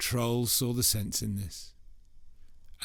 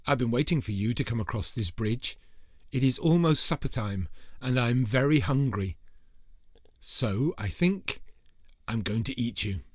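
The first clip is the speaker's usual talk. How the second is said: louder, booming threat; loud menacing troll; 2 semitones higher, 4 dB louder than usual. Acted. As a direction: loom over him and growl hungry. Troll threatens biggest goat.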